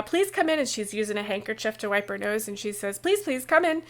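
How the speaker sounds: lightly voiced upset host; teary host. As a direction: welcome guests while wiping her nose. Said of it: "And Rebecca says".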